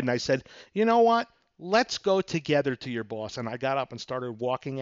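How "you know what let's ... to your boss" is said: retold annoyance. Buyer to car salesman after third refusal, retold annoyance. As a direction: act out running out of patience. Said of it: "I got annoyed".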